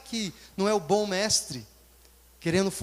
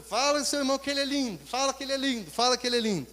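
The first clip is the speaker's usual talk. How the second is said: repetitive worship leader; 5 semitones higher, faster than usual. Retold or imitated. Minister repeats the phrase thirty times.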